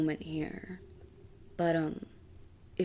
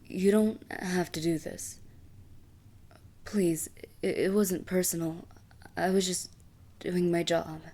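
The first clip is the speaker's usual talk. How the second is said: pleading. Acted. Assassin begging the queen to spare her, pleading. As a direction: beg for your life.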